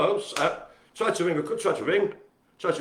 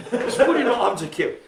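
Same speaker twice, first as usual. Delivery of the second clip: higher and louder through laughter; amused laughing repeat; 8 semitones higher, 5 dB louder than usual. Real, not acted. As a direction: crack up while repeating it.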